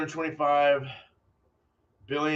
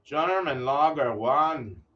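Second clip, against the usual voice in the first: slow, mock German accent; German Lager One in a hammed-up German accent, slow; terrible German accent; 2 semitones higher, 5 dB louder, slower than usual. Shown as a demonstration. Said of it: "That was a terrible German accent".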